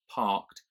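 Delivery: "Parked" as British "pahkt", R dropped; silent R. Shown as a demonstration. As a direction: drop the R in "Parked". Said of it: "so I don't pronounce it".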